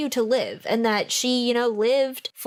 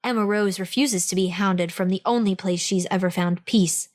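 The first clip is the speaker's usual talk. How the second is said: lower, dramatic book-blurb narration; blurb read; 3 semitones lower than usual. Acted. Podcast host reading the ghost story blurb, dramatic narration. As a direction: read it like a movie trailer teaser.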